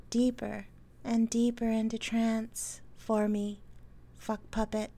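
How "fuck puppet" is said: right in your ear. Acted. Trigger phrase in hypnosis.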